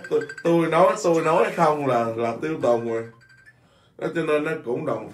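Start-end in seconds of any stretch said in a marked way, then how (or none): 0.1-3.0 chest-thumping boast. Retold or imitated. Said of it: "mình vỗ ngực, mình nói".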